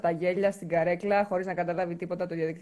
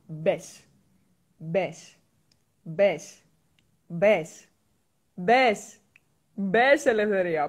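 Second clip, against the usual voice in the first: building insistence; 4 dB louder, much slower than usual. Acted. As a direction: repeat it, pushing harder each time.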